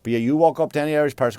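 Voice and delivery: ordinary talk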